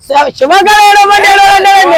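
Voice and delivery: high, drawn-out insistent call; insistent demand. Acted. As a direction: stretch it out high, demanding they obey. Insists they go and cry.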